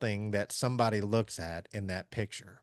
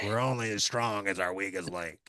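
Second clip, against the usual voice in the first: a bad, hammy Irish accent; a farm boy's shaky stab at an Irish accent; 2 semitones lower, 3 dB quieter than usual. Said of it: "of course he said it in an Irish accent".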